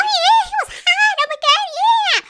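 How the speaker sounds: very high, loud mock squeal; mock gushing. Host mimicking mom over hot guy, mock gushing squeal. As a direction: parody a swooning fan at full volume.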